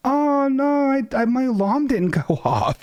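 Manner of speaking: high flustered mock excuse; mock therapist. Therapist excusing missed alarm, high flustered mock. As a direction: squeak it out, flustered. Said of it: "she's like".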